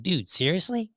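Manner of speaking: lifted pitch, incredulous question; mock indignant disbelief. Upset woman to man shooting down restaurants, mock incredulous. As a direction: imitate someone upset and incredulous.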